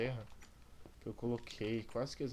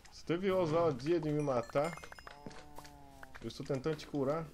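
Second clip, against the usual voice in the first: raging gamer; 2 semitones higher than usual. Real, not acted. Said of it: "Agora eu fiquei puto com ele".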